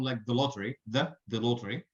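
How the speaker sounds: "the" reduced to a schwa; "the" short and unstressed before lottery; weak the. Shown as a demonstration. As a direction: slur "the" into lottery. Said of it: "we do have a weak form".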